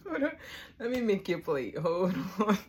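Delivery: loud call to grandma. Real, not acted. Calling to grandma.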